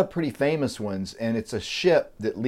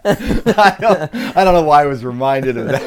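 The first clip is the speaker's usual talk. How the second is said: high, real laughter after a joke; laughing; 6 semitones higher, 4 dB louder than usual. Real, not acted. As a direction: laugh through the words.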